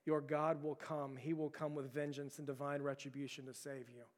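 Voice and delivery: a prisoner quietly calming himself through a hood; low muffled recitation. Retold or imitated. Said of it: "he's speaking out loud through the bag".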